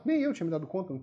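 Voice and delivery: usual speaking voice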